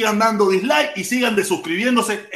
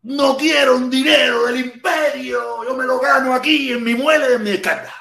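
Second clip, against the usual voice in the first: mock proud refusal; 5 semitones higher than usual. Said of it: "voy a tener que decir".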